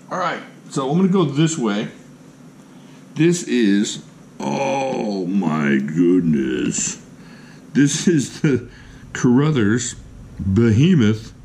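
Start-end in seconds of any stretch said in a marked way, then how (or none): 4.4-11.3 very slow, drawn-out marvelling; real awe, stretched out slowly; awestruck. Real, not acted. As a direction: let the words melt in wonder. Awed by the new knife.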